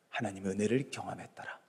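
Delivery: very soft and low; hushed answer. Real, not acted. Preacher answering what gave Noah strength to endure, hushed. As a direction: drop right down for a solemn answer.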